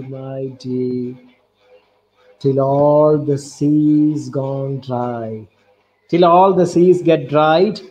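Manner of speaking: slow, drawn-out recited verse; poem recitation. Shown as a demonstration. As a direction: savour each line of the love poem. Recites poem lines slowly.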